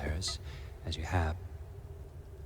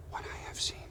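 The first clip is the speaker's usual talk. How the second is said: ominous hush; 8 dB quieter than usual. Acted. Villain's ominous boast.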